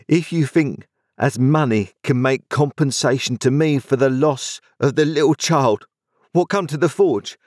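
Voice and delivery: a big kind man holding back tears; Joe, gently moved. A narrator's reading. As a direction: Joe speaking of the little child he lost, gently. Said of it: "said Joe".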